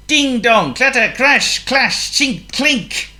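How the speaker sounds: high, loud string of exclaimed crashes; clattering sound words. A narrator's reading. Narrator as the cupboard's contents tumble, high clattering exclamations. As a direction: ring out each word like falling crockery.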